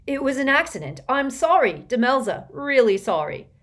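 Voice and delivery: loud, high apologetic shout. A narrator's reading. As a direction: shout the apology after her. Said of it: "Ron shouted after her".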